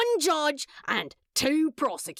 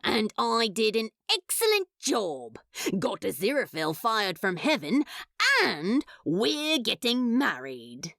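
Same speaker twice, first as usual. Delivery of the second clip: proudly flaunting; 6 semitones lower than usual. Acted. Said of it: "absolutely proud and ready to flaunt".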